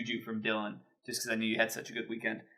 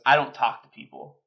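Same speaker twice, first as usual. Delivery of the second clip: flat deadpan brush-off; 5 dB louder than usual. Retold or imitated. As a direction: say it dead-faced, no emotion. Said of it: "just deadpan".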